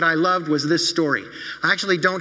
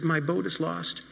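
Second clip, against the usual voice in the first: softer and slow, choking it down; holding back tears; 6 dB quieter, slower than usual. Acted. Billy telling his parents, softly holding back tears. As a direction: let it fall quiet and heavy. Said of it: "He tried to hold back the tears".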